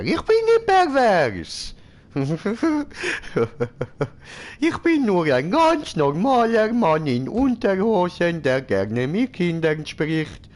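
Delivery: high, silly voice of a man in underwear; squeaky Sim voice. Pretend. Streamer voicing his Sim greeting the neighbours, high and silly. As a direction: ham up a goofy neighbour calling hallo.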